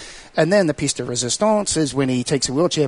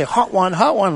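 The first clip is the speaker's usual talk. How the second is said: mocking cackle; 6 semitones higher, 4 dB louder, slower than usual. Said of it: "and they would say".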